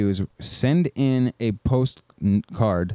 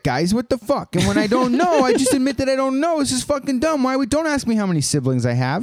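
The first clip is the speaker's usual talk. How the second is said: high mocking voice of a smug comedian, much higher; 11 semitones higher, faster than usual. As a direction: parody a self-important comedian, pitched way up. Mocking a podcaster's attitude.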